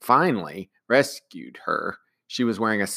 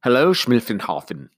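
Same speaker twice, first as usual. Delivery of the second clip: cheerful; 3 semitones higher than usual. Acted. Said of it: "the boy said cheerfully".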